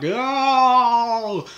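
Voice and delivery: loud, high burst of surprise; a sudden oh as something hits you; startled exclamation; surprised oh. Real, not acted. Sudden exclamation mid-list.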